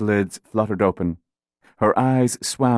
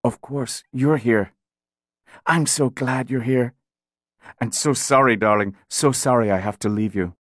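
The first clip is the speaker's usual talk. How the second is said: tender farewell; 2 semitones higher than usual. Acted. Dying mother's tender farewell.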